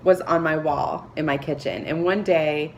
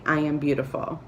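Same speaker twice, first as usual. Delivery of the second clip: sincere self-affirmation; 2 semitones lower than usual. Shown as a demonstration. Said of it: "look straight into my own eyes and say".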